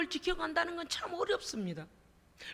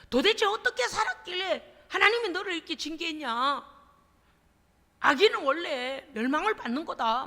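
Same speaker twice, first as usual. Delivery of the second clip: friends' rebuke; 4 dB louder than usual. Acted. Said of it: "욥을 막 책망하는 거예요".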